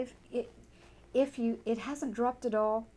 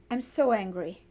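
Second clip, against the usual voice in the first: a firm, raised angry statement; angry declaration; 6 dB louder than usual. Pretend. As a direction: say it out loud with real heat, louder. Tapping script, voicing own anger.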